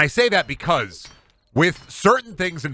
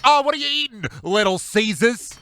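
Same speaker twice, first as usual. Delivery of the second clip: much higher, sneering put-on voice, slowing at the end; mock sneer; 10 semitones higher than usual. Streamer voicing a snob sneering at Little Caesars, high mock voice. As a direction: scoff like a snooty snob. Mocking a pizza snob's sneer.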